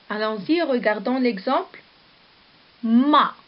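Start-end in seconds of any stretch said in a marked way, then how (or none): 2.8-3.4 "Ma" said alone, loud and clear as one syllable; syllable ma sounded out. Shown as a demonstration. Teacher showing pupils a syllable, crisp and loud. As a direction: sound out "Ma" for the class. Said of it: "c'est une syllabe".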